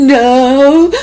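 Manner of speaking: crying "no" through tears, high and loud.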